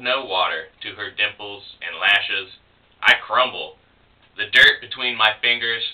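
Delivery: measured, even poem recital; understated spoken-word reading; poetry reading. Acted. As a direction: read it image by image with small pauses. Reads closing poem aloud.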